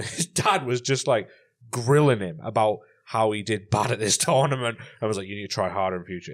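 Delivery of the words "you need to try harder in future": put-on low, brisk German accent, lightly done; a hint of a deep German dad. Imitated dad grilling his son, light German accent. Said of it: "in a really thick German accent".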